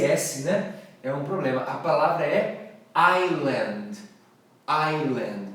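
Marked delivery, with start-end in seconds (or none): 2.9-5.5 "island" said "ailand", no S; silent S. Shown as a demonstration. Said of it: "Mas e o S". ("island" sem o S)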